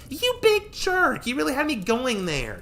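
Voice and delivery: very high, slow playful shout; laughing at being fooled. Acted. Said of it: "she laughed".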